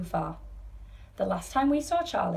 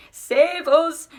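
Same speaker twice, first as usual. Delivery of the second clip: high, loud cry for rescue; yell; 10 semitones higher, 10 dB louder than usual. A narrator's reading. Grandma in the shooting elevator cries for help, yelling. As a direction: yell for help over the roar. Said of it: "yelled Grandma Georgina".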